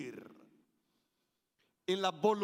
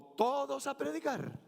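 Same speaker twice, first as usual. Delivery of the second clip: 1 commanding call; 5 semitones higher than usual. Shown as a demonstration. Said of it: "Si yo le entonara de ese modo".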